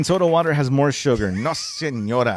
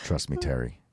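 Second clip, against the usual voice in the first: seductive praying voice; 8 semitones higher, 4 dB quieter than usual. Acted. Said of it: "he's saying it like this, like if he's praying".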